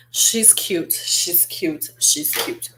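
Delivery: soft whisper of she's cute; whispered admiration. Real, not acted. Vlogger whispering praise for the dark red shade. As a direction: breathe it out as an aside, hushed.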